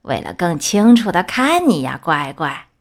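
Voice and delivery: wolf hiding as a sweet grandma; lightly voiced fake grandma. (狼装成奶奶，低声哄着说)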